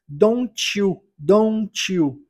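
DON'T YOU joined with a "ch" sound, like "donchu"; T turned to CH. Shown as a demonstration. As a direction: blend DON'T YOU into "don-chu". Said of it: "o T aqui pode ser transformado em T". (DON'T YOU com T som de "tch")

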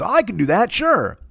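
high-pitched cocky volunteer; breezily overclaim, pitch swooping up; mock overconfidence. Improv guy claims he can do accents, mock overconfidence.

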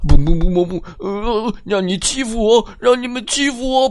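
狠狠教训老鼠; fierce payback. A narrator's reading. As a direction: hit back at the bullies. Man beating mice.

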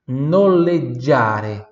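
noleggiare said slowly, with a drawn-out "dj" for GG; Italian double G. Shown as a demonstration. Teacher models noleggiare for students, slow Italian pronunciation with double G. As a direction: sound out noleggiare syllable by syllable. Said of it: "com dois Gs".

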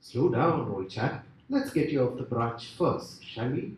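lightly voiced, unhurried deity settling someone down; calm God. God calms the babbling man on the branch, lightly voiced. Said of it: "says God".

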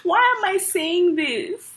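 high, drawn-out exasperation; laughing self-reproach; mock angry. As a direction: play up being cross with yourself. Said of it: "especially when you're angry".

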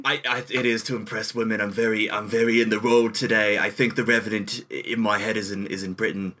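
douchey celebrity with a put-on British accent; lightly affected British accent, in role; Johnny Depp. Film star answering the teasing interviewer, put-on British accent. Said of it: "why are you using a British accent".

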